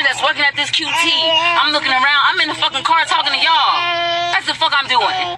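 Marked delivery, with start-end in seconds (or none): 2.2-5.4 tearful outburst; crying. Real, not acted. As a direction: cry it out, voice raised. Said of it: "I'm crying because I'm so passionate".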